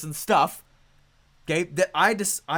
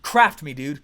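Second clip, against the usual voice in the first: louder, punchy "Craft me" with the weight on "Craft"; eager plea; 2 semitones lower, 6 dB louder, slower than usual. Retold or imitated. To his coach, retelling his eager loud plea. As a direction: demand it like a hungry student. Begging his mentor to push him.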